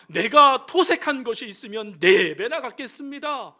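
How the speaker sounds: loud with a laugh in it; joyful Zacchaeus. Acted. Zacchaeus vowing repayment, laughing loudly. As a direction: rejoice as a changed man.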